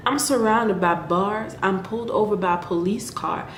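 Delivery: poem recited in a put-on Southern accent. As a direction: recite verse with an amateur Southern twang. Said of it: "doing it in my Southern accent".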